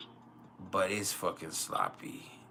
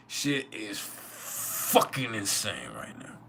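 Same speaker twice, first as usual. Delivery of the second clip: sleepy drawl; much slower than usual. Real, not acted. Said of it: "I'm fucking sleepy".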